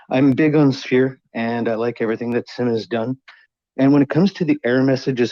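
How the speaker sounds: slightly shaky voice from the cold. Real, not acted. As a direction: voice shaking a little with cold. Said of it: "If my voice sounds shaky".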